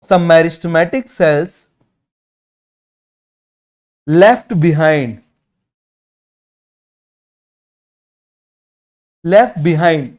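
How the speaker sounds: very slow, word by word for note taking; slow dictation. Shown as a demonstration. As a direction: spell it out slowly so students can write. Teacher dictates notes slowly.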